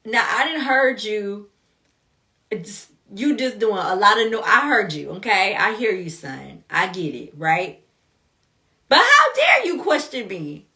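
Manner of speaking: a hint of an offended God putting a kid in his place; mild mock divine scolding. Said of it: "God was like".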